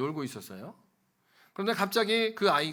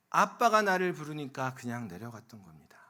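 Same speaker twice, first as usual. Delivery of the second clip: whisper; 4 semitones lower than usual. Real, not acted. Preacher whispering the point to the congregation. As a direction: lean in and whisper it. Same words, now whispered.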